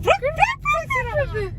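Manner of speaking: put-on high, slow little-kid mangling of Chick-fil-A; toddler mispronouncing. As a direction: stretch it out like a small child. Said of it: "it was just like".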